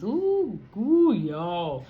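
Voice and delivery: high then loud ooh; struck ooh. Real, not acted. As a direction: react like it hit a nerve. Reacting to deep question.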